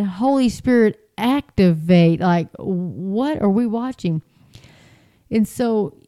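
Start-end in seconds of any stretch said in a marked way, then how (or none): 0.0-2.2 mild mock yell, stretched out slowly; retold yell. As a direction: imitate a preacher's cry, dragging the last word.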